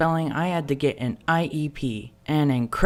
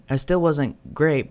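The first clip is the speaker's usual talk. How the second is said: ordinary talk, nothing marked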